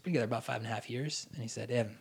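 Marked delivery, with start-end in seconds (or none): 1.7-2.0 lightly imitated Southern country accent; bad Louisiana accent. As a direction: retell it in a rough Baton Rouge accent. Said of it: "I'm gonna do a horrible accent".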